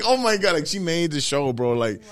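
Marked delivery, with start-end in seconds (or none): 0.0-0.5 high amazed gasp; higher mock disbelief; mock shock. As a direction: act overwhelmed. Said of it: "I was like".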